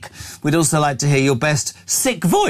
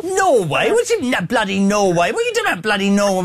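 fast, high indignant splutter; playfully scandalised at Norway; mock outrage; 5 semitones higher than usual. Host's mock outrage at Norway fan.

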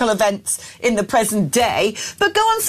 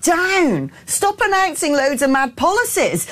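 exasperated scolding; 5 semitones higher, slower than usual. Retold or imitated. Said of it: "I'm like".

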